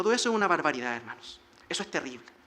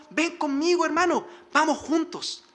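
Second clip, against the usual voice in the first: higher, slower, eager call to a brother; Esau's invitation; 7 semitones higher, 4 dB louder than usual. Retold or imitated. Esau calling Jacob to travel together, eager. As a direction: coax your brother to come along.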